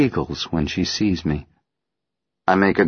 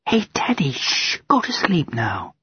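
put-on little girl voice; 8 semitones higher than usual. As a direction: soothe a toy like a small girl. Child soothing her teddy.

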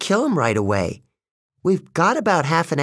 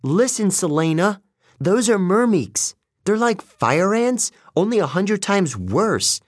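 raised pitch, forceful explaining; urgent insistence; 7 semitones higher than usual. A narrator's reading. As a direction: drive the danger home, then order action. Annabeth shakes Selena, urgently explaining.

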